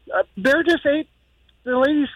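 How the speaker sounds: high, mock-distressed voice, no real sobs; upset daughter. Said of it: "She calls me crying".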